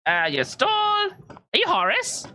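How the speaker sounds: high, eager tour-guide patter; rushing to help; chatty Belbic. Acted. Belbic offering the party a tour of the market. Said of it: "starts going".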